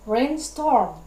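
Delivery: "rainstorm" with both syllables stressed; spondee stress. Shown as a demonstration. Teacher giving an example of a spondee, both syllables of "rainstorm" stressed. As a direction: put weight on both "rain" and "storm". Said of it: "two subsequent stressed".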